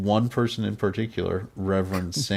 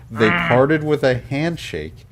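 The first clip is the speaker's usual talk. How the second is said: 1950s narrator; 2 semitones higher, 4 dB louder than usual. Acted. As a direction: read it like a vintage narrator. Reads out dramatic report line.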